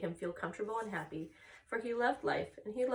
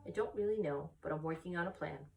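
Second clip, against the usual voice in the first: vague. Acted. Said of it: "said Charlotte vaguely".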